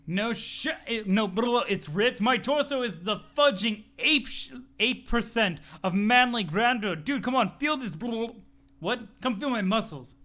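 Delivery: boastful gym bro showing off; a lightly voiced bragging bodybuilder; muscle bro. Muscle bro to his friend Dirk, lightly voiced boasting.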